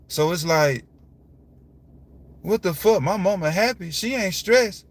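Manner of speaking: heated incredulous rundown; exasperated rant. Real, not acted. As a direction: pile up each reason in disbelief. Listing why father should be happy.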